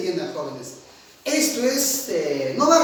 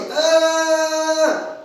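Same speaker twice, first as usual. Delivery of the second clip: held tone; 7 semitones higher, 5 dB louder than usual. Shown as a demonstration. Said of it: "yo hablo así".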